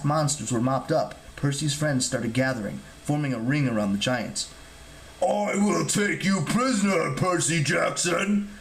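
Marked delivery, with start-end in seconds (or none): 5.2-8.5 slow, menacing monster voice; villainous giant's drawn-out snarl. A narrator's reading. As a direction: snarl the threat, stretching every word. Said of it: "Polyboat snarled".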